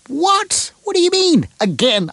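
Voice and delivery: high, squeaky mock outrage at 'again'; mock indignant surprise. Radio host voicing a listener's mock outrage, high and playful. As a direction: play the offended friend, half in jest.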